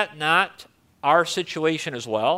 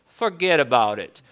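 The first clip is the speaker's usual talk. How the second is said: lower, lightly played New York accent; a hint of New York accent, pitched down; 4 semitones lower than usual. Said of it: "Think about the New York accent".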